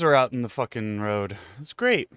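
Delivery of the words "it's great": dry sarcastic "great". Real, not acted. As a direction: say it like it's a disaster. Chickens loose in the road.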